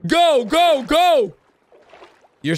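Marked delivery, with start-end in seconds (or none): 0.0-1.3 excited cheering. Real, not acted. Cheering Peppa on.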